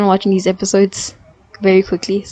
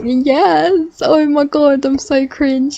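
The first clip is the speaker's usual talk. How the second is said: high, giddy squeal; high childish gushing over the scene; childlike glee; 7 semitones higher, much slower than usual. Retold or imitated. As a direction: gush like an excited kid. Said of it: "I'm like a child".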